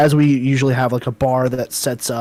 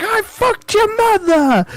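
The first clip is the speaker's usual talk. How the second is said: much higher, slow, stretched shout; hammed-up yelled insult; slower than usual. Guy from the video, escalating the shouting match. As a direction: drag out the outrageous taunt. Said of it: "He's like".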